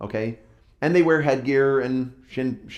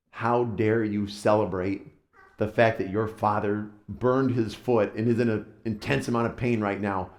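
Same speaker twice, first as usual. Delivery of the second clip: stern mother; 3 semitones lower than usual. Retold or imitated. Mother scolds celebrating kids.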